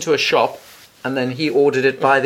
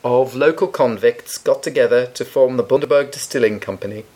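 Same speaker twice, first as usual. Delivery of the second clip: advert read. Acted. Reads out the rum's blurb.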